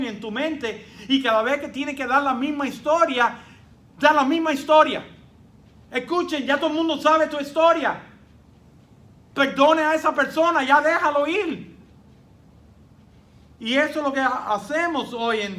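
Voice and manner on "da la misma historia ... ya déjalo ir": louder and higher, pressing the point home; fervent preaching. Real, not acted. Pastor urging the congregation to let go, louder and higher. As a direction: preach it with rising force.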